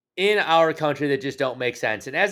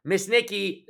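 put-on baby voice; 5 semitones higher, slower than usual. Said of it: "I'll leave my baby voice there".

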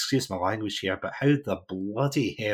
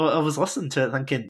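ordinary talk, nothing marked

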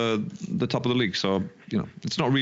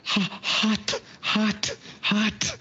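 much higher yelps at scalding tea; too hot; 12 semitones higher, much slower than usual. Real, not acted. Burning his mouth on his wife's tea, much higher yelps. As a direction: yelp each word high as the tea burns.

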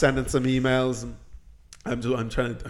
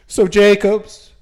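mock hushed mayor; 3 semitones higher, 6 dB louder than usual. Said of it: "he goes really quiet".

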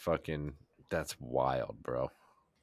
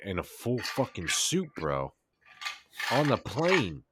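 incredulous; 5 semitones higher, slower than usual. Retold or imitated. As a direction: build to a shocked outburst. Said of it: "And then he's like".

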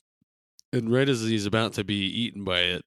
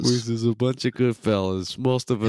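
Goodfellas mobster; 2 semitones higher than usual. Retold or imitated. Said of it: "recreating Goodfellas".

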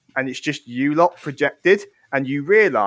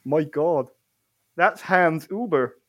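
Fuzzy Jumper; 2 semitones higher, slower than usual. Acted. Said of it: "Fuzzy Jumper goes".

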